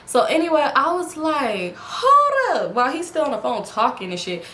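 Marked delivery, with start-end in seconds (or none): 1.8-2.7 high, loud "hold up"; angry. Retold or imitated. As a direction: confront him sharply. Angry confrontation over phone.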